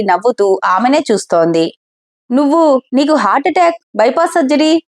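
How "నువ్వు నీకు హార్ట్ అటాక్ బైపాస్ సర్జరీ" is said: stammering. Acted. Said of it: "తరబడుతూ అడిగింది".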